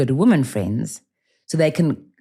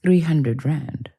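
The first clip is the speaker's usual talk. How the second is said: slow catfisher ask; much slower than usual. Retold or imitated.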